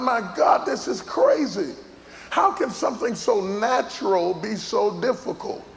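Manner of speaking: high-pitched comic disbelief; mock exasperation. Husband baffled that nursing is so hard, comically exasperated. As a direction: cry out in hammed-up bewilderment.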